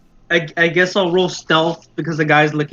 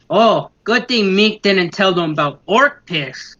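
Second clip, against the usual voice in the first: goblin muttering aloud; 3 semitones higher, slower than usual. Acted. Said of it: "he's gonna say it somewhat out loud".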